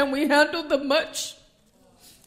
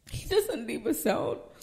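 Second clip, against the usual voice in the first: hushed repeat; 6 dB quieter than usual. Acted. Pastor repeating the promise softly to the congregation, hushed. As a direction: bring it down to a near murmur.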